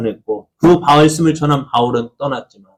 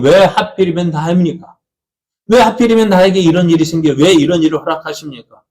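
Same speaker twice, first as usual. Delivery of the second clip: raised, protesting cry of "why me"; resentful complaint; 3 semitones higher than usual. Acted. Believer complaining to God over hardship, resentful protest. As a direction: complain upward in a higher voice. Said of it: "우리 원망하고 불평".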